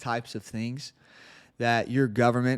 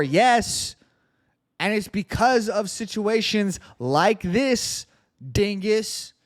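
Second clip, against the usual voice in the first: high-pitched, emphatic retort; exasperated sarcasm; 7 semitones higher, slower than usual. Real, not acted. Host fires back at a news article, exasperated.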